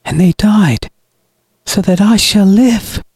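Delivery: high-pitched, coldly righteous villain; cold brother. A narrator's reading. Brother justifies the deaths to his sister, cold. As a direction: let it fall coldly from above. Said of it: "his voice echoing down upon her, falling as cold".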